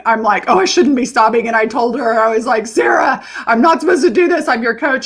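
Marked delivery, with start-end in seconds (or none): 0.5-1.5 retold sobbing. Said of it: "while I'm sobbing". 2.7-5.0 retold sobbing cry. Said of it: "while I'm sobbing".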